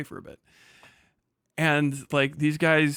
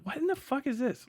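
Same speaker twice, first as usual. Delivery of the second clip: retold disbelief; 12 semitones higher, 4 dB quieter than usual. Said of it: "I'm like".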